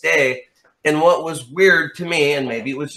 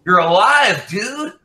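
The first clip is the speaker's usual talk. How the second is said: retold crying; 8 semitones higher, 4 dB louder, slower than usual. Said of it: "I was, like, crying".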